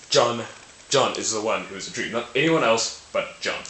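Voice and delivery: "John" singled out firmly each time; stress on JOHN. Shown as a demonstration. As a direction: insist on JOHN with a punched first word. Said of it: "put emphasis on John".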